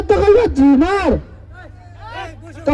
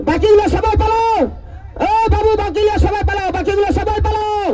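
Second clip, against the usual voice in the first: frantic retreat order. Real, not acted. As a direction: order everyone back, urgently. Announcer ordering crowd to clear.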